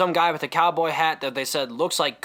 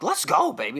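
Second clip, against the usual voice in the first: excited; 6 semitones higher than usual. Retold or imitated. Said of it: "making me excited".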